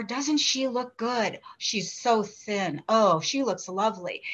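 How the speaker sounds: imitating mother, slow and lightly voiced; admiring mother, slowed. Mother admires a thin woman, slow and lightly voiced. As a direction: savour each word like a doting mother. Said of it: "still talks like this".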